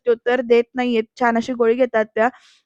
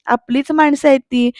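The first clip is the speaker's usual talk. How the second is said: gentle persuading; slower than usual. Acted. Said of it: "असं म्हणून समजावतात".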